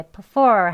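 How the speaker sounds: "prefer" sounding like "p'FER"; reduced first syllable. Shown as a demonstration. Teacher imitating what learners hear, "prefer" reduced to "p'FER". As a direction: swallow the "pre", land on "FER" in "prefer". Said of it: "하는 것처럼 발음이 들립니다".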